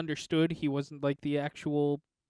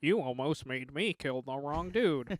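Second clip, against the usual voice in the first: slow mock Wakandan accent; imitating Black Panther, drawn out; Black Panther impression; 2 semitones lower, slower than usual. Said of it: "the worst Black Panther impression".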